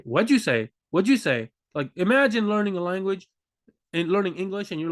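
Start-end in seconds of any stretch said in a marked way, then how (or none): 0.0-1.5 quick slurred native speech. Shown as a demonstration. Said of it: "They say".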